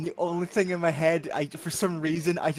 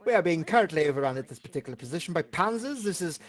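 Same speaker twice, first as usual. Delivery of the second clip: military radio call; 5 dB louder than usual. Acted. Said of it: "Fucking radio".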